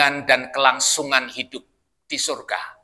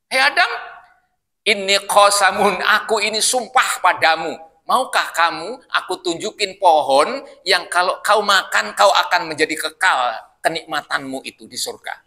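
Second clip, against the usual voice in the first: tempting devil; 2 semitones higher than usual. Acted. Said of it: "setan godanya".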